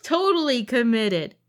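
slurping into the mic while talking. Real, not acted. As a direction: talk through a noisy slurp of drink. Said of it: "Stop slurping into the mic".

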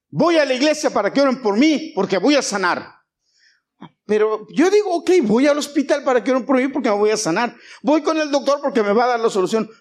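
insistent pulpit delivery; declarative preaching. Real, not acted. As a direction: declare it out to the congregation. Preaches, voicing the believer.

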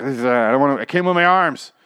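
high, loud whine of a man too weak to move; mock helpless whimper; whiny weak Eugene. Eugene too weak to lift himself.

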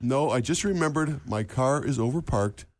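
put-on slow mumbled Hungarian vampire accent; lightly imitating Bela Lugosi's slurred line. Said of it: "this is what his answer was".

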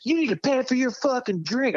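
high-pitched mock bartender demand; put-on high voice, demanding payment; imitating angry bartender.

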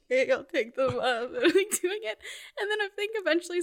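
high, teary laugh while complying; laugh-crying. Retold or imitated. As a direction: giggle through the tears.

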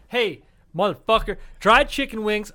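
a hint of a rowdy redneck hollering; lightly voiced bar redneck. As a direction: call it out like a guy barging into a bar. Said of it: "I sound like a fucking redneck".

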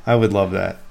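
dry, mock enthusiasm; sarcastic. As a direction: say it meaning the opposite. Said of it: "That was sarcasm".

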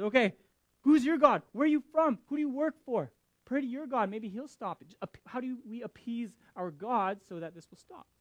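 high, loud frantic questions; panicked sailors grilling Jonah; freaking out. Retold or imitated. Sailors in the storm demanding answers from Jonah, panicked and loud. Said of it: "are freaking out".

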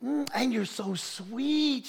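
tender coo. Retold or imitated. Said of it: "I said".

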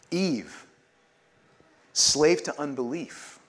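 liturgical call. Acted. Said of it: "And we all say".

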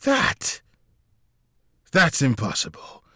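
high-pitched shocked "That?"; shocked disbelief. A narrator's reading. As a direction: freeze in disbelief. Mikael frozen by shock.

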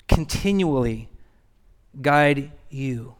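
slow, hushed scripture reading with long pauses; read slowly. Shown as a demonstration. Pastor reads the verse to the church slowly and softly. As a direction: let each word land, slowly and softly. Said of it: "I'm gonna read it slowly".

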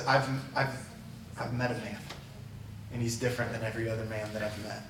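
low, soft, halting start to a confession; hushed testimony. Retold or imitated. Woman tells her town about the man she met, hushed testimony. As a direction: quietly voice her sincere witness.

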